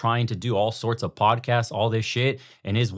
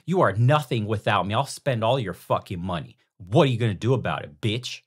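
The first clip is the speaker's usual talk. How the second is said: mock domineering wife. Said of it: "And the whip comes out".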